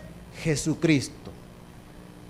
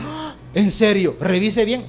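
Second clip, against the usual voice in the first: mock gasp, then louder incredulous question; startled disbelief; 3 dB louder than usual. Churchgoer told the debt is cleared, acting startled. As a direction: act out being taken aback. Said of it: "Hay gente que se asusta y dice".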